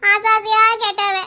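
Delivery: acted tearful wail; weepy, hammed-up grieving; crying lament. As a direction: bemoan it through stagey tears. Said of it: "ஏன் அழுதுகிட்டே கிடக்கா".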